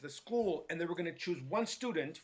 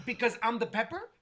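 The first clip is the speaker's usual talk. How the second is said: sarcastic question; 4 semitones higher than usual. Retold or imitated. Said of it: "that's how they would sound".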